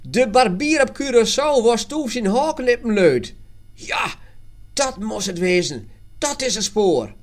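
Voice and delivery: loud, high exclamation; excited calling out. A narrator's reading. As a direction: call out the breakthrough. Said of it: "tegelijk riepen ze".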